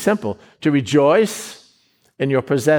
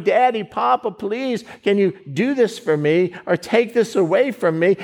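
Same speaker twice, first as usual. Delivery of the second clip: higher, begging little voice, no real tears; a child tugging at Daddy, half-acted plea; pleading child; 5 semitones higher than usual. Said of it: "pleading and crying".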